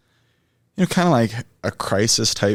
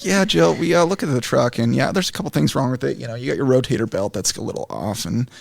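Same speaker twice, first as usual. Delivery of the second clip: higher, muffled voicemail voice; hand over mouth; 4 semitones higher than usual. Retold or imitated. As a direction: talk like a muffled phone message. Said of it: "I was making it muffle, like the voicemail".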